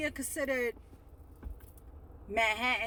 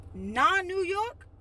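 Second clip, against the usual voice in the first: sarcastic; 6 semitones higher, 5 dB louder, much slower than usual. Real, not acted. Sarcastic mocking phrase.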